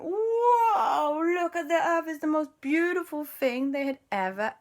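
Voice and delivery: high gasp of wonder fading to a hush; marvel, then drop to near whisper; awed look at Earth. Acted. Children gazing down at Earth from the rocket, awed. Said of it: "and they went".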